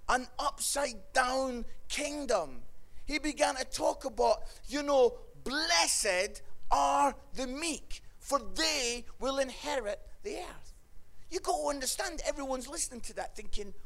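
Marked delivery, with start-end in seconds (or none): 5.4-10.7 slow, measured proclamation; solemn scripture quote. Acted. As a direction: quote it slowly, word by word. First quote of the beatitude.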